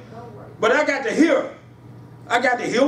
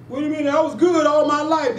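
indignant protest; 8 semitones higher than usual. Acted. Dead person protests at gates.

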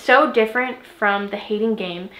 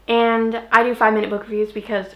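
hiccups; faster than usual. Real, not acted. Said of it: "I have the hiccups".

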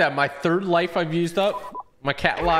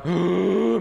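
gasp; 4 semitones higher than usual. Real, not acted. Startled mid-meow while playing.

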